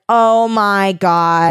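very slow, drawn-out disbelief; slow-dawning, overacted astonishment; mock amazement. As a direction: stretch every word in hammed-up shock. Squire recognizes the visitor.

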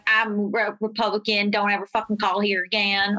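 low mock Republican guy; lightly put-on low male voter voice; imitated male voice. Republican voter refusing the campaign call, mock male voice. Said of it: "like, a male accent".

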